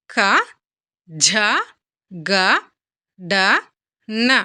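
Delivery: క, ఝ, గ, డ, న as separate syllables with pauses; letter-by-letter recitation. Shown as a demonstration. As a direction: recite క, ఝ, గ, డ, న singly, ఝ breathed out. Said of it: "నేను ఎలా పలుకుతున్నానో జాగ్రత్తగా గమనించండి".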